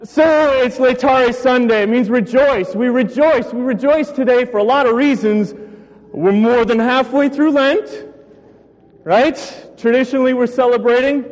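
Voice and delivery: breathless after running about; winded, catching breath between phrases. Real, not acted. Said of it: "I'm catching my breath still".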